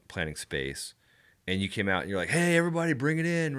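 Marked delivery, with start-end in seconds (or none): 2.3-3.6 imitated calling-out. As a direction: mimic someone gathering the group. Imitates co-host calling everyone over.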